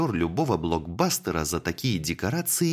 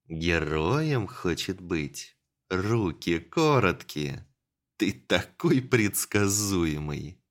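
dark whisper behind you; slower than usual. Acted. Enemy taunts from hiding.

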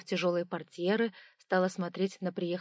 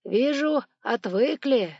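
reproachful; 5 semitones higher, 8 dB louder, much slower than usual. Acted. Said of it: "укоризненно покачал головой".

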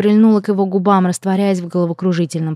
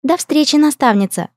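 higher, sugary elf princess; sweet princess farewell; 7 semitones higher than usual. Acted. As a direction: chirp it sweetly high. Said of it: "мило улыбнулась Лия".

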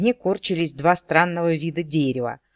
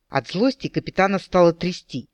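ordinary delivery

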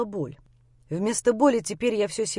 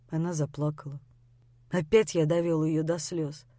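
plain reading voice

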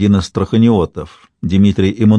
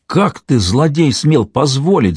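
higher and raised, slow furious demand; furious shout; 5 semitones higher, slower than usual. A narrator's reading. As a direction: rage at the treasurer, shouting. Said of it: "закричал Иван Васильевич в бешенстве".

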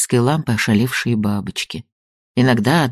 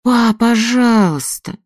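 pleading; 10 semitones higher, 4 dB louder, slower than usual. A narrator's reading. Daughter pleading with father.

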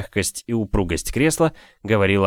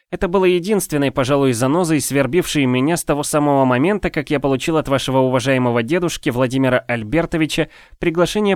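a bit higher, pleased and flowery; lightly voiced genial gentleman; 6 semitones higher than usual. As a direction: savor the compliments lightly. Voices Afanasiy's speech.

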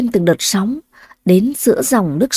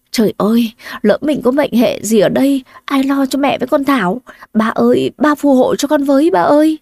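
desperate prayer; 4 semitones higher than usual. Acted. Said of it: "Trong cơn hoảng sợ và tuyệt vọng".

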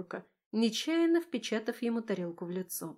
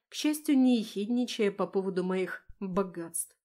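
ordinary delivery

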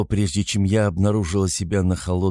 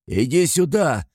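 high, slow angry call; narrated demand, barely gruff; lightly voiced man's yell; 7 semitones higher, 3 dB louder than usual. A narrator's reading. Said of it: "кричал ты". (мужской окрик)

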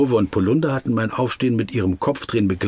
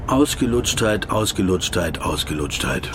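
sinking repetition; 3 semitones lower than usual. Acted. Man tasting his own worn-out word, sinking lower each time.

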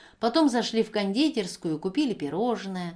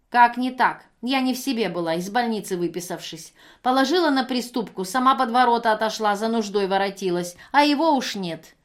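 louder, wheedling self-justifying shout; shouted excuse; 3 semitones higher, 6 dB louder than usual. Acted. Женщина кричит, оправдываясь. (громко оправдываясь)

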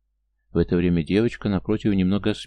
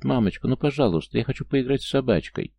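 put-on pleading child; 5 semitones higher than usual. Child begging mother.

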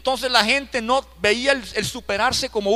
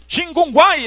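lightly mocked Chinese sounds, pitched up; joking fake Chinese; 7 semitones higher, 5 dB louder, slower than usual. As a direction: imitate Chinese in high, loud gibberish. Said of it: "Como chino".

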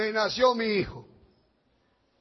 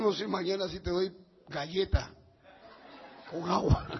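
laughing wife; 4 semitones lower, 9 dB quieter than usual. Retold or imitated. Wife's joking reply.

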